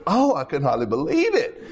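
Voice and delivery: lightly acted gossip, swooping up in pitch; mock gossip. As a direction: play at scandalized gossip, half laughing. Acts out a gossip's reaction.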